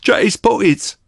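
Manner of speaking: high, loud heckling yell; shout from the crowd. A narrator's reading. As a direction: holler it from the back. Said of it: "a voice cried".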